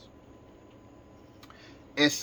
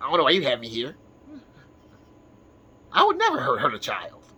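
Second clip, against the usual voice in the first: mock pleading character. Accused character pleads innocence.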